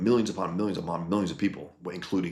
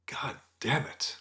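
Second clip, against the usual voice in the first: whispered curse under the breath, slower; muttered curse; 6 semitones higher, 8 dB quieter, slower than usual. Real, not acted. Frustrated streamer cursing under breath.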